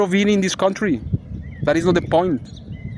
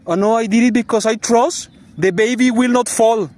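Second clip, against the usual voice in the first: higher-pitched imitation of her; mock excuse; 5 semitones higher than usual. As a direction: mimic her defending herself, pitched up. Mimics her excuse about the baby.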